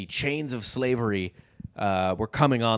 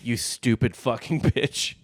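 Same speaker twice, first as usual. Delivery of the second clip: slower, breaking into a laugh; slower than usual. Retold or imitated. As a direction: repeat it while cracking up. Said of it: "It just says".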